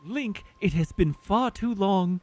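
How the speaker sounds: lightly voiced noble Zora prince; Prince Sidon voice. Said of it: "I'll just try to do his voice normally".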